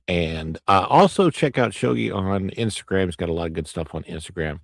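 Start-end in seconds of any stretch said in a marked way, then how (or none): none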